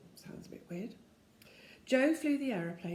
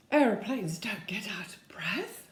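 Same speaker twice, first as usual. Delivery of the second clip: scoffing whisper; 4 dB louder than usual. Acted. Joe scoffing at Moonface.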